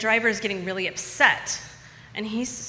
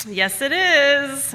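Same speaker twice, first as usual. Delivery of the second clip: high, loud, slow insistence; defiant retort; 7 semitones higher, 8 dB louder, much slower than usual. Retold or imitated. Pregnant narrator answering her friend over loud music, high, loud and slow. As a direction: fire it back with certainty. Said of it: "I'm like".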